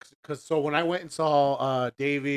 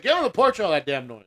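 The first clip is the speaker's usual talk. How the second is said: a hint of a stern father scolding; higher, louder fatherly scold; stern dad; 3 semitones higher, 3 dB louder than usual. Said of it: "You wanna be like daddy over there".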